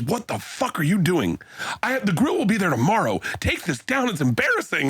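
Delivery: high squeaky mock of a scolding friend; mock Joe scolding. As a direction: squeak it up to mock Joe's telling-off. The speaker retells Joe scolding him.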